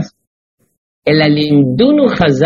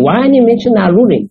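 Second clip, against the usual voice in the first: retold challenge, pitched up at the start; imitating someone pressing a question; puzzled questioning; 4 semitones higher than usual. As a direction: put the commentator's question with lively, rising emphasis. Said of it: "that's what he's asking".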